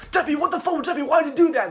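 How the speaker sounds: very high, loud mock outrage; acted angry yell. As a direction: scream at the kid in exaggerated disbelief. Acted angry outburst at broken console.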